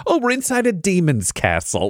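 high, wide-eyed realization; sudden mock shock at the discovery; mock dawning alarm. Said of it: "they'll realize, like".

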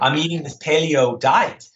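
light German accent on the quote. Shown as a demonstration. Joking with the host, quotes his friend in mild German accent. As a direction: slip a hint of German accent into it. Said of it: "I always say it with the German accent now".

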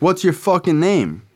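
imitating a hostile kid demanding his name; aggressive demand. Retelling roommate Diaz snapping at him, high mock-tough.

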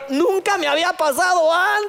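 sheepish excuse. Retold or imitated. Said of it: "aplicas la de".

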